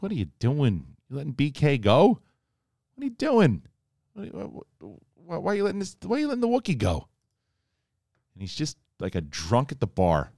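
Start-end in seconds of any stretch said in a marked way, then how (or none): 0.0-7.1 high, loud disbelieving shout; incredulous outcry. Retold or imitated. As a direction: yell in disbelief, pitch way up. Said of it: "everybody was like".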